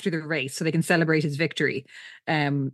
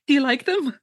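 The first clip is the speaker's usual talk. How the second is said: higher-pitched imitation of a hopeful suitor; hopeful, cute; 6 semitones higher, 3 dB louder than usual. Recapper voicing Winston offering flowers, hopeful and cute. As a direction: lightly act out an eager, sweet question. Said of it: "he's so hopeful and cute here".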